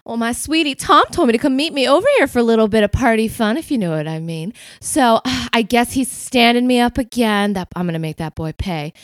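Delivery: a touch of put-out sweetheart; Penny. Acted. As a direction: start high and quick, then drop on the threat. Penny explains herself to the butler.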